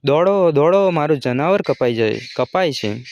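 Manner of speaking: loud cry that fades out; anguished call fading to despair; desperate scream. Acted. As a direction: scream for help with all his strength. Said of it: "ચીસ પાડી".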